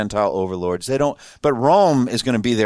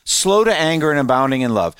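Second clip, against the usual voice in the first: exasperated complaint, a bit higher; annoyed Jonah; 3 semitones higher than usual. Retold or imitated. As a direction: grumble like a fed-up prophet. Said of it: "Said it like that".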